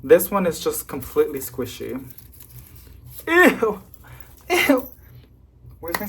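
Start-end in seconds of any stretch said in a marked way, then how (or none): 3.3-4.9 high squealed ew of disgust. Real, not acted. Plant owner grossed out by rot, high disgusted squeal. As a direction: recoil from the mushy stem. Disgust at squishy rotten stem.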